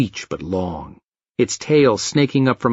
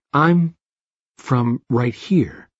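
even, inflectionless delivery; a hint of robotic speech; slower than usual. A narrator's reading. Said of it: "He spoke robotically".

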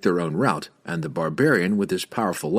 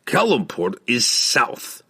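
suspicious; 3 semitones higher, slower than usual. A narrator's reading. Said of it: "Bruner retorted suspiciously".

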